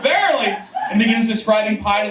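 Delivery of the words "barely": rising amazement; amazed crowd, pushed higher; mock wonder, higher. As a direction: pitch the second barely up high with a laugh.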